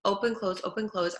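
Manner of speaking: open, close said with big lip movements; exaggerated mouth shapes. Shown as a demonstration. Teacher showing children open and close mouth movements. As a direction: show the jaw opening and closing. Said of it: "our tongue is moving".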